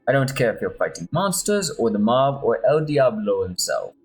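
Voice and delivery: put-on Spanish accent. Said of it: "my Spanish accent".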